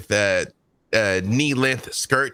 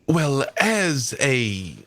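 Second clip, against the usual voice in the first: King's English. Acted. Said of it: "I will speak, um, the King's English then".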